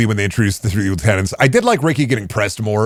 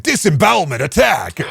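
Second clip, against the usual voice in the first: anime attack shout; 6 semitones higher than usual. Pretend. Anime attack name callout.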